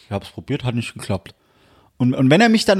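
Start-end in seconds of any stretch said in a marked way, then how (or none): 0.1-1.3 low, soft, resigned dad; imitated Hessian father. Father after a failed call to his son, low imitated Hessian. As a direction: shrug it off quietly in Dad's low voice. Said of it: "der ist so".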